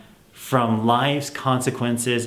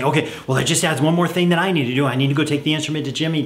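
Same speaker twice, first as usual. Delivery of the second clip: frantic parent; 4 semitones higher, much faster than usual. Retold or imitated. Parent whose kid forgot the instrument, fast and frantic. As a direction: rush it like a frazzled parent with too much to do. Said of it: "So many parents frantically just say".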